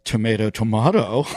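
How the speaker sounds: tomato as "to-MAY-to", then "to-MAH-to"; contrasting pronunciations. Acted. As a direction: say tomato the two rival ways. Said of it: "And I'm like".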